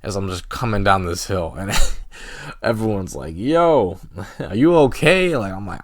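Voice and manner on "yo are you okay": high, loud, amused mock alarm; alarmed concern. Everyone to a crashed skier, imitated alarm through a laugh. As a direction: imitate stunned friends, laughing midway.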